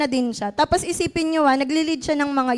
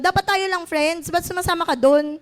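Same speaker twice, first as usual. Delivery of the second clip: quick, higher jealous complaint; mock jealous anger; 3 semitones higher than usual. Jealous friend scolding you for other friends, in a mock angry rush. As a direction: act out a clingy friend's sulky outburst. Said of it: "parang galit na galit".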